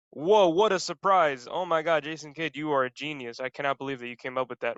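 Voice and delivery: drip fake awe over the coach's move; sarcastic. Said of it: "sarcasm aside".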